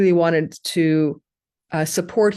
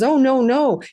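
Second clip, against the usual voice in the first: protesting friend; 7 semitones higher, 4 dB louder than usual. Retold or imitated. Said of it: "And Renee says".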